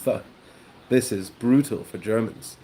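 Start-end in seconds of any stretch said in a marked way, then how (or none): 0.0-0.2 isolated TH, tongue between the teeth; TH said as a lone speech sound. Shown as a demonstration. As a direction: sound out TH alone. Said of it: "Another sound that's super hard is the".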